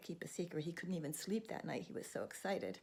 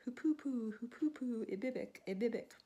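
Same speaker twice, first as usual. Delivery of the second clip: high, louder sing-song bird call; hoopoe birdsong; 6 semitones higher, 3 dB louder than usual. Acted. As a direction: chirp it like a hoopoe. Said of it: "singing his song".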